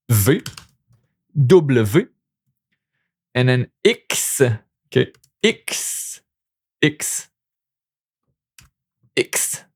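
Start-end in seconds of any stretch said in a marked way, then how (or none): 4.9-9.6 "X" breathed softly, slow, almost whispered; French X said soft. Shown as a demonstration. Teacher shows the French "X" softly, almost whispered. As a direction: whisper "X" slowly for the learner. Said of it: "like this".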